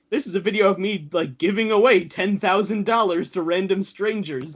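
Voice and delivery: fast, excited YouTuber pitch; YouTuber hype voice. Retold or imitated. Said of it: "he would be like".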